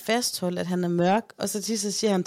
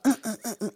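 short, repeated mock grunts; imitated humping grunts; much faster than usual. Mother imitates her son's humping, in short grunts. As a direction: grunt in quick little bursts, imitating.

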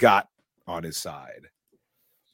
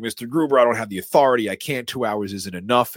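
panicked; 4 semitones higher, 7 dB louder than usual. Retold or imitated. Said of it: "Deputy Dwayne's like".

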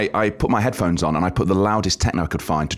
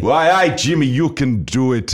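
slow, high Scottish attempt slipping into Geordie; attempted Scottish accent; 4 semitones higher, 3 dB louder, slower than usual. Shown as a demonstration. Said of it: "that sounds like Geordie again".

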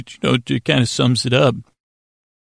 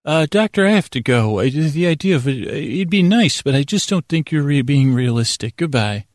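lightly voiced receptionist; 2 semitones higher than usual. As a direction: politely let him down, pitched up a little. Institute receptionist hangs up.

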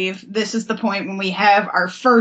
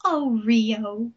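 understated melodramatic sigh; subdued sigh. Retold or imitated. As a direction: let the name fall, mock-wistful. Same phrase, said subdued.

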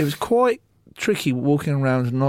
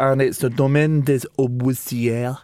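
put-on French accent. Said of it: "your French accent would be better than that".

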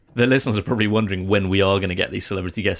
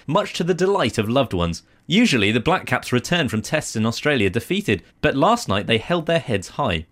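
measured, lilting article reading; news read; 4 semitones higher than usual. Acted. Presenter reading a New Zealand Herald side note, news-read style.

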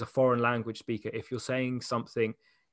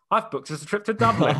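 imitating mum's excited announcement, higher and louder; spontaneous mum; 8 semitones higher, 5 dB louder than usual. Mum walks in announcing a booked trip, excited mock announcement. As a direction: burst in with news, playfully acted. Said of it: "my mum, who".

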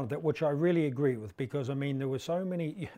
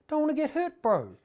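put-on squeaky kid; 11 semitones higher than usual. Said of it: "He said".

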